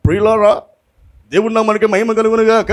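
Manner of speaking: mock a preacher's solemn pulpit greeting; put-on pulpit voice. Preacher mimics others addressing congregation from the pulpit, mock pulpit voice. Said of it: "బలిపీఠం ఎక్కాక ఒక స్వరము".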